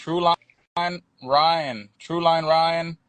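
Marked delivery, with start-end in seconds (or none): 0.0-1.9 very slow, stretched auctioneer chant; drawn-out auctioneer call. Pretend. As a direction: drag out every word like an auctioneer. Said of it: "He's over here sounding like an auctioneer".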